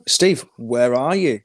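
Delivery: slow, drawn-out mock call to Steve; mock questioning. Acting out confronting Steve about herping, drawn-out mock questioning. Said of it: "I'll be like".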